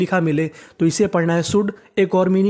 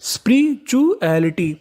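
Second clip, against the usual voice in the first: स्पिरिचुअलिटी stretched out slowly, syllable by syllable; slow teaching read; 3 semitones higher, slower than usual. Shown as a demonstration. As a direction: sound out स्पिरिचुअलिटी slowly for the class. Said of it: "तो पूरी meaning बनी स्पिरिचुअलिटी". (स्पिरिचुअलिटी को धीरे-धीरे खींचकर बोलना)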